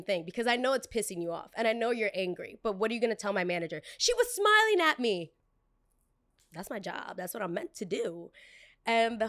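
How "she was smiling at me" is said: mock whiny complaint. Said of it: "mocking the customer's complaint".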